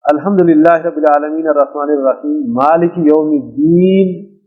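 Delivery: slow, measured recital of the verse; slow Quran recitation. Shown as a demonstration. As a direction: recite it slowly and reverently. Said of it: "ہمارے یہاں آپ نے دیکھا ہوگا". (آہستہ تلاوت کے انداز میں)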